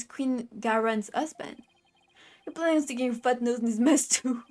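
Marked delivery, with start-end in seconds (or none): 2.5-4.4 lightly voiced Brooklyn tough guy; Brooklyn accent. Justice minister to a nosy lawyer, light Brooklyn accent. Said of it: "a Brooklyn accent".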